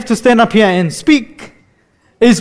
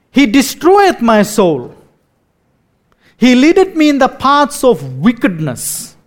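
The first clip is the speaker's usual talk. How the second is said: solemn scripture reading. Acted. Reads parody psalm aloud solemnly.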